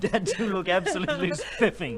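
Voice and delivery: high, loud, laughing through it. Acted. Son mocking Dad's moustache, laughing loudly. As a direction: crack up while praising Dad.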